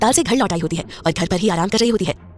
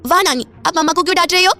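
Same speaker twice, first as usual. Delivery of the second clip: put-on high, loud child voice; little boy; 9 semitones higher, 4 dB louder than usual. A narrator's reading. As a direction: play a curious small boy. Narrator voices small boy. (ऊँची बच्चे जैसी आवाज़)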